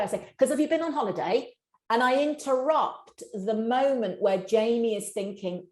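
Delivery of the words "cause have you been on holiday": impatient interruption. Shown as a demonstration. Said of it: "if he doesn't answer me straight away".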